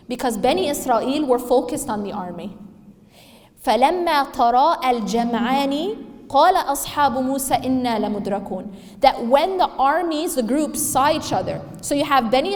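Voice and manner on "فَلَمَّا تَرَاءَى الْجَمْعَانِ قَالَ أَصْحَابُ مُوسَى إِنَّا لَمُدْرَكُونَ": Quran recitation. Acted. Preacher recites Quran verse.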